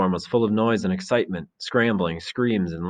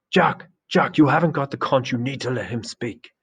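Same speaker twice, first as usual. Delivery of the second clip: sharp rebuke; 6 semitones higher than usual. Acted. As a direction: call Jack back to the rules. Ralph rebukes Jack at assembly.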